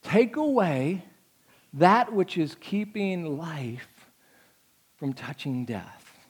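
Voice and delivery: slow, weighty, drawn out; slow emphatic reading. Shown as a demonstration. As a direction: let each word land slowly.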